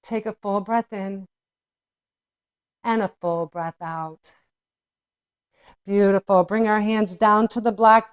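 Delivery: soothing yoga teacher guiding the class; guided yoga cueing. Acted. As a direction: talk them gently through each pose.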